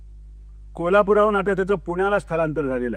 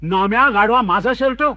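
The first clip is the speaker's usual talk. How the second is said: director yelling; 3 semitones higher, 5 dB louder than usual. Acted. Director spotting his own shirt on Namu, loud outraged yell. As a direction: bark it at the thief across the room. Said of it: "इतका दिग्दर्शक ओरडले".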